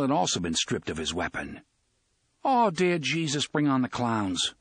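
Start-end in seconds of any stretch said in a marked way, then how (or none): 2.5-4.5 miserable. Acted. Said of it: "O'Meara thought miserably".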